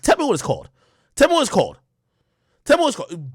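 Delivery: high loud urging; pleading crowd. Real, not acted. Asks audience to name the bird, high loud pleading. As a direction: beg the crowd for the word. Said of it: "Please, somebody tell me".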